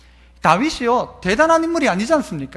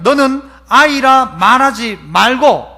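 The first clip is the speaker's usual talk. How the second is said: slow, firm scripture reading; measured divine command; reading God's words; 2 semitones lower, 4 dB louder, slower than usual. Retold or imitated. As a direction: deliver it slowly like scripture. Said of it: "여호와께서 내게 이르시되".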